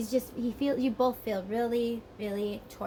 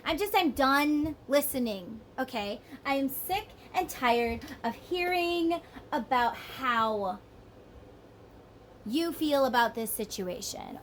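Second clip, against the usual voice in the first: fed-up rant; 2 semitones higher than usual. Retold or imitated. Partner sick of hearing about her, irritated rant. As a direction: vent that you're done listening.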